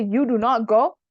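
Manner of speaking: firm, measured command; emphatic forbidding. Shown as a demonstration. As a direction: give an order that allows no choice. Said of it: "it's more emphatic".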